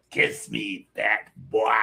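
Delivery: lightly voiced creepy clown; scary movie clown voice. Showing how the actor said it, light clown taunt. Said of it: "I love the way he said that".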